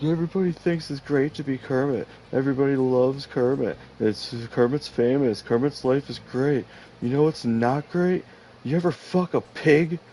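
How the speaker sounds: high, loud ranting frog voice; Kermit the Frog. Retold or imitated. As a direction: rant loudly as Kermit. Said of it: "not, like, a perfect Kermit voice".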